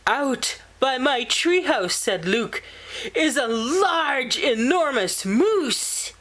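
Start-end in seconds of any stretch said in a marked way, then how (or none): 0.1-1.9 put-on higher, eager child voice; boy bursting to tell his dad; excited child. Child excitedly reports moose. 3.1-6.1 put-on higher, eager child voice; boy bursting to tell his dad; excited child. Child excitedly reports moose.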